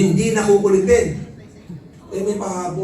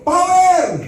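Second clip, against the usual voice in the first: high, loud triumphant shout; mock cheer; 9 semitones higher, 5 dB louder than usual. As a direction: cheer like it's finally over. Mock cheer as seminar ends. (masayang sigaw ng tuwa)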